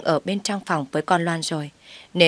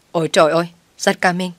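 louder startled gasp of words; 4 dB louder, faster than usual. Acted. Mother-in-law caught off guard by the daughter-in-law, startled. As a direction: jump out of your skin and blurt it. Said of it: "giật bắn cả người".

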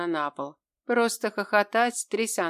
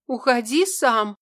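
louder, higher, scared command; frightened demand; 5 semitones higher, 6 dB louder than usual. A narrator's reading. Frightened girl orders the demon to go, loudly. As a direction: push him away in fear. Heroine tells demon to leave.

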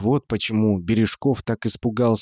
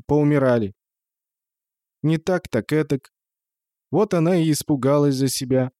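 put-on higher-pitched, querulous old aunt; old woman; 4 semitones higher than usual. A narrator's reading. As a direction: grumble and fret like an old woman. Old aunt's dialogue in the story. (старушечий голос, повыше, с ворчанием)

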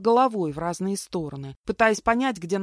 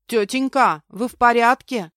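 put-on high, loud little boy's voice; thin child voice; 5 semitones higher, 9 dB louder than usual. A narrator's reading. Small boy asking a crying woman, piping. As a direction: pipe up like a concerned child. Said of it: "чей-то тонкий голосок".

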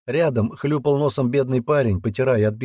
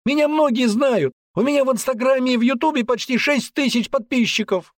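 high and loud, puffed-up outrage; teen boasting of followers to soldiers; indignant shout; 4 dB louder than usual. Acted. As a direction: yell your self-importance.

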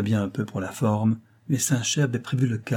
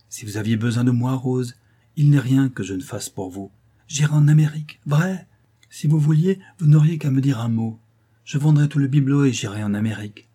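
high, loud, tumbling promises; Saint-Chet, eager devotee; 4 semitones higher, 6 dB louder than usual. A narrator's reading. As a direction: swear you'd cross the ocean for her. Saint-Chet's eager devotion to Rose.

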